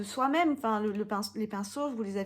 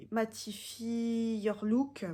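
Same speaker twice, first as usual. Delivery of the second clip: slow attempt at English with a French accent; French speaker's would-be English accent; self-mocking English accent; much slower than usual. Shown as a demonstration. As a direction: read the English slowly in a French-tinged English accent. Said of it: "avec mon super accent anglais".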